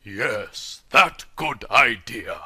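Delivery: soft, low reply; quiet. Acted. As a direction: agree softly. Companion replies quietly.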